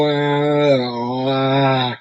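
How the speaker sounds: big open ow sounds; mouth noise demo. Shown as a demonstration. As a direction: stretch the mouth on ow. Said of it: "They're doing things with their ow".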